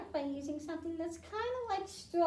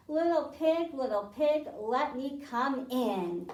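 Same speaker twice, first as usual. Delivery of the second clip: big bad wolf; 5 dB louder than usual. Wolf calls at pig's door.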